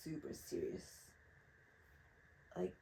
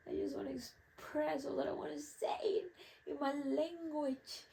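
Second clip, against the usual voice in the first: frustrated whisper; 10 semitones higher, 5 dB louder than usual. Retold or imitated. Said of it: "I'm like, "Ugh".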